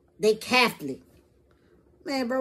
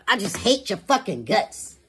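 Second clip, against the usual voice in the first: slow mock hatred. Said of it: "Another one".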